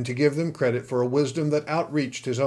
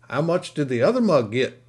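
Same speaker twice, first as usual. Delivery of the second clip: saloon keeper demanding, a bit louder; 3 semitones higher, 5 dB louder than usual. Acted. Saloon keeper demands what the other man got. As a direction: press for the price, gruff barkeep. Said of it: "the saloon keeper demanded".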